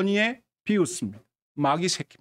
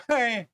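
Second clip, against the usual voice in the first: short mock scoffing "heh"; derisive snicker; 3 semitones higher than usual. Mourners laughing at Jesus, derisive. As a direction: let out a brief acted sneer. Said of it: "비웃었다".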